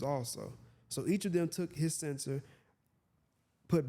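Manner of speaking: measured Bible reading voice; scripture reading. Acted. Preacher reads the verse to listeners, measured. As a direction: read it out as holy text.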